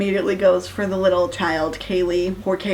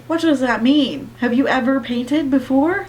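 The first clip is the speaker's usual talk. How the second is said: incredulous; 5 semitones higher than usual. Real, not acted. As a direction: demand it, baffled. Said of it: "I'll just read it".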